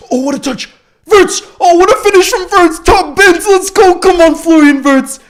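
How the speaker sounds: very high, very loud ecstatic yell; screaming goal celebration. Real, not acted. Streamer hailing Wirtz's finish to viewers, screaming in celebration. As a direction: erupt as the ball goes in.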